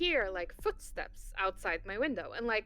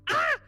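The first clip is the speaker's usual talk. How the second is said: mock startled scream; 8 dB louder than usual. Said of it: "which prompts me to go".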